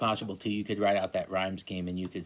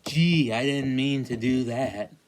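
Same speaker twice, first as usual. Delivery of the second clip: higher, louder mock oops; mock innocent whoops; 4 semitones higher, 5 dB louder, slower than usual. Teacher reading the poem's line, mock-innocent. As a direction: play the careless shrug. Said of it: "We do it by".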